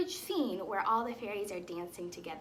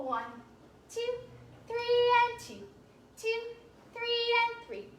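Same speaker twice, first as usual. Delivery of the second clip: counting waltz time; 8 semitones higher than usual. Shown as a demonstration. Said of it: "let's practice that one more time".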